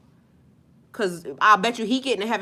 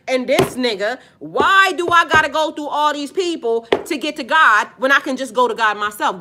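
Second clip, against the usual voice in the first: put-on higher, louder indignant quote of the young rapper; 3 semitones higher, 4 dB louder than usual. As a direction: voice his frustration, pleading and loud. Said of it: "He said".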